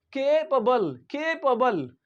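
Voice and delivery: Capable with long, stressed "KAY"; careful pronunciation. Shown as a demonstration. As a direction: say Capable as KAY-puh-bul. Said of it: "how do we pronounce this word".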